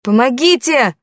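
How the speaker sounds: high, loud cry for help; scream for help. Acted. Woman attacked on the stairs, screaming for help. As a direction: shout as if the glass could ring. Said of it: "закричала громко так".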